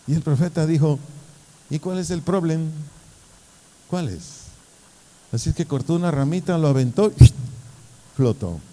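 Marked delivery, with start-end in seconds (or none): 1.7-4.2 at peace. Acted. Prophet to his panicking pupil, at peace. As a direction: ask it untroubled. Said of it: "¿Y quién estaba en paz?".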